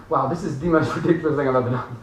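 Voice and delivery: chuckling through the words; amused wow at your own silliness; laughing disbelief. Retold or imitated. Someone doing laughing yoga, laughing in disbelief. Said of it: "You're like".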